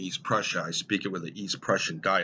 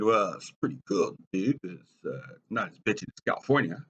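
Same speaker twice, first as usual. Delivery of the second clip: laid-back dude. Retold or imitated. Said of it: "I said".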